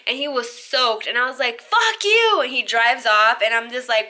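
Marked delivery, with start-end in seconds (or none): 1.6-2.4 sharp, high shouted curse; a high, angry parting shot; retold yell. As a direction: fling it at him as you leave. Throws drink, yells at him.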